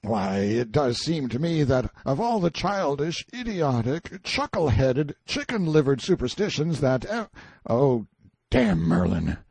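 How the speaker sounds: high, loud mocking rant; scornful shouting. A narrator's reading. Prisoner rails at Merlin's supposed spell, scornful shouting. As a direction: pour out derision at rising pitch. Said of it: "and shouted".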